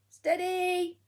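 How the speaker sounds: shout. Acted. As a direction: Duck calls out eagerly. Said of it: "shouted Duck".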